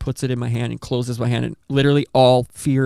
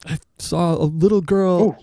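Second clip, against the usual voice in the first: frantic retelling; 5 semitones higher than usual. Retold or imitated. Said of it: "she was like".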